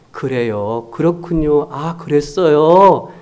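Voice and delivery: just acknowledge, slowly; gentle agreement. Shown as a demonstration. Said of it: "근데 그냥".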